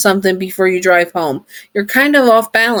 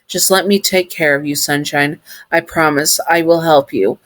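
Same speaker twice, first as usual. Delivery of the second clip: tender promise. Acted. Sun promising comfort.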